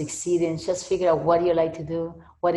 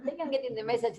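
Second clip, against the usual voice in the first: chuckling through the words; laughing; 7 semitones higher, much faster than usual. Pretend. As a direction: laugh at your own stubbornness. Laughing at own stubbornness.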